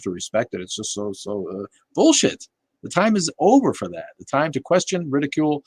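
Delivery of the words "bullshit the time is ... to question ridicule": outburst. Real, not acted. Ranting against respecting religion.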